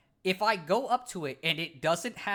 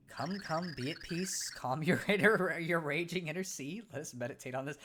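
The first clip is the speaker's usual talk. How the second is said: calm wise pixel. Acted. Pixel answering the startled Cragnon, calm sage voice. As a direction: speak like a serene little oracle.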